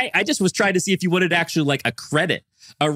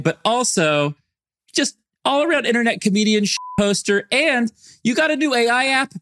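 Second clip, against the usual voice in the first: upbeat announcer intro, pitched up at the start; podcast host intro; 3 semitones higher than usual. Acted. Host introduces guest on air, announcer style. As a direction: open the show like a radio host.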